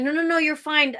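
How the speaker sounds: mildly flustered reassurance; hurried retold reassurance. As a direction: wave it away, voice lifted.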